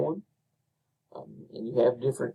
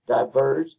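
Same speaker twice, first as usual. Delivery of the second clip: "diverged" with weight on the second syllable, di-VERGED; iambic stress; 4 dB louder than usual. Shown as a demonstration. Teacher showing the second iamb, stressed di-VERGED. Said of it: "second iamb".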